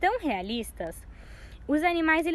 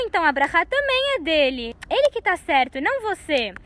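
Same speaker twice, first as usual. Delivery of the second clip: firm loud ruling; 3 semitones higher, 6 dB louder than usual. Acted. Father rules firmly for Yaakov.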